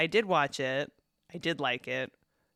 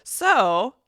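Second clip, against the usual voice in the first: put-on Southern accent; 7 semitones higher, 8 dB louder, slower than usual. Introducing episode in accent.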